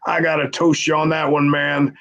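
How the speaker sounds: high, laughing toast; imitating a laughing buddy. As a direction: cackle then raise a toast. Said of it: "So Bradshaw's laughing".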